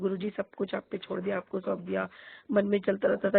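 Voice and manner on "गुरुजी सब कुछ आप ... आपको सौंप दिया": hushed, surrendering to Guruji; soft surrender prayer. Retold or imitated. Devotee quietly telling Guruji she has given up everything, softer. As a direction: say it softly, handing it all over.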